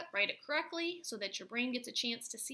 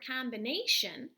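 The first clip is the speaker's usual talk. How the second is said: combination stressed on NAY; 2 semitones higher, 5 dB louder than usual. Shown as a demonstration. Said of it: "it's this A that gets emphasized".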